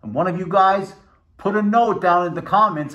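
muffled behind helmet mask; speaking into covered mouth; through a face muzzle. Real, not acted. Seen 1: Rogue helmet's muzzle covers mouth throughout; R frames show none.

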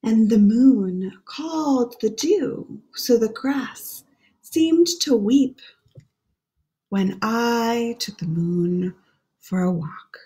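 put-on hushed, lilting read-aloud for children; gentle storybook voice; story reading. Reads the rhyming book aloud.

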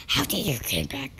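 soft unvoiced question; whispered viewer quote. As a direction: hush it like a secret. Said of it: "you guys like".

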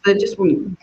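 echoey, as if in a big cave; boomy room echo, far off. Real, not acted. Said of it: "You sound like you're in a big cave".

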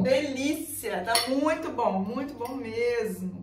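words round a mouthful of pasta; mouth full. Real, not acted. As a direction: still a mouth full, slow. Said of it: "Posso falar de boca cheia não".

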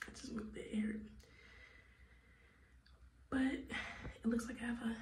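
soft unvoiced whisper. Real, not acted. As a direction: keep it hushed. Whispering at night in pain.

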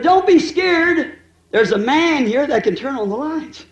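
put-on high, very slow child's comfort; little boy reassuring. Little brother comforts his screaming sister, high and slow. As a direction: soothe your sister, drawn out.

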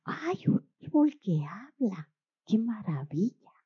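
breathless whisper of wonder; children marvel at a tree that talks, whispering; amazed children. Acted. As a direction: whisper it in delight.

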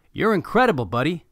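dad cheering his son, high and loud; proud dad. A narrator's reading. Dad praising his son after the goal, excited and loud. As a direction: burst out with praise. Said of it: "Big Nick told him".

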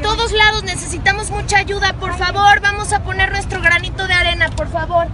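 high, lifted rallying cry; rallying call. Real, not acted. Rallying neighbours to help the victims, high and lifted. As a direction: fire up the crowd to help.

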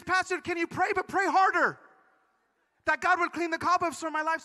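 retold tearful plea. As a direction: imitate a woman begging her pastor. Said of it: "she's still crying".

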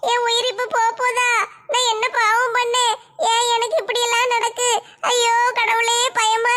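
tearful pleading while hanging from a cliff; crying in fear. Acted. Woman slipping off a cliff cries out in fear, tearful. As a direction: sob it out, terrified of falling.

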